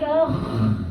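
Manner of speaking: put-on drawn-out French-accented friend. French friend tells about her love life, French accent. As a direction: play a French woman, taking it slowly. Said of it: "in a French accent".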